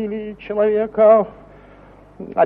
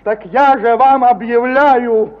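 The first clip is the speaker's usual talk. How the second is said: louder and slow, each word weighed; slow outraged declaration; 2 semitones higher, 6 dB louder, slower than usual. Acted. Ivan Ivanovich renouncing his neighbour, slow and loud with outrage. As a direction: declare it slowly with wounded dignity. Formal break of friendship, outraged.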